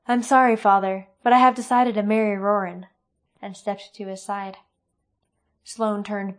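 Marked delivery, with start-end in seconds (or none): 0.1-2.9 firm declaration. Acted. Katrina's firm decision to father.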